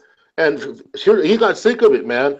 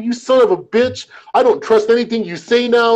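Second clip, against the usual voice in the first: mock cussing; 6 semitones higher than usual. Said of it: "cussing me out".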